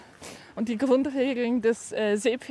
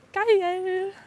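excited; 7 semitones higher than usual. Real, not acted. Cheering about sandals.

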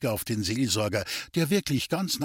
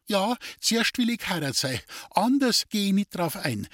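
higher, insistent and firm; determined girl; firm demand; 8 semitones higher than usual. Acted. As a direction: put your foot down. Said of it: "bestimmte das Mädchen".

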